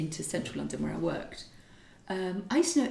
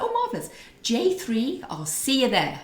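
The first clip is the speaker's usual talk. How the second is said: mock delight; 4 semitones higher, 4 dB louder than usual. Imagined delight at booking a seat.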